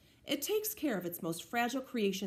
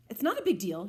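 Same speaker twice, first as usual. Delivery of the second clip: a touch louder, brushing it off; defensive; 4 dB louder than usual. Acted. Olivia dodging Justin's question, mildly defensive. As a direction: shrug the question away, lightly defensive. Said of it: "she answers defensively".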